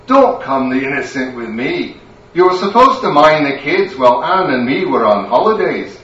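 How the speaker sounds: a stern wife with a Scottish lilt, rising into a scolding. Acted. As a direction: catch him out and scold him.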